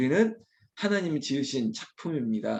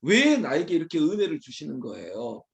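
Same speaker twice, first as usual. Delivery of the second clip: higher, playful demand of God; grateful arguing; 4 semitones higher than usual. Acted. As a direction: challenge Him out of overflowing thanks. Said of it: "하나님께 따지는 거예요".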